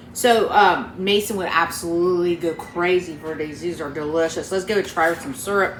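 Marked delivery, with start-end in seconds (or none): 1.0-3.6 talking with a mouth full; words around a bite of food. Real, not acted. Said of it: "I know I'm talking my mouth full". 3.6-4.5 talking with a mouth full; words around a bite of food. Real, not acted. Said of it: "I know I'm talking my mouth full". 4.5-5.8 fast, talking with a mouth full; rushed through a mouthful of food. Real, not acted. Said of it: "I know I'm talking my mouth full".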